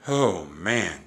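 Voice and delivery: loud, drawn-out storybook sigh of relief; relieved, emphatic groan of words; sighed exclamation. A narrator's reading. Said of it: "Jack sighed".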